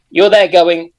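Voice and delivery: ordinary delivery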